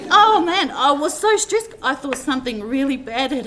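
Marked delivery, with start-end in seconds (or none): 0.1-1.7 high and much louder, laughing through it. Real, not acted. Speaker at a eulogy laughing as she recalls her stress. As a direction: laugh out the memory of the panic.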